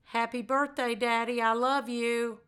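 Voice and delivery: plain, unhurried and even; not rushed. Shown as a demonstration. Daughter to her late father, unhurried and plain. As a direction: take your time with each word. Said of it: "but not rush".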